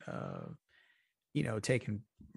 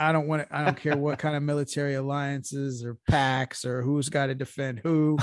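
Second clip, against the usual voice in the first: louder bursts of mock defiance; mock Putin tirade; 4 dB louder than usual. Co-host playing Putin at the negotiating table, mock-defiant. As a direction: lay down a comic ultimatum. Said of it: "on the table and said".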